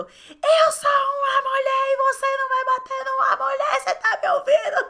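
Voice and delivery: high, loud furious shout; daughter yelling. Retold or imitated. Daughter yelling at her big brother in a fight, high and loud, slowing at the end. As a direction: yell it as a girl standing up to her brother. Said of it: "E aí ela gritou".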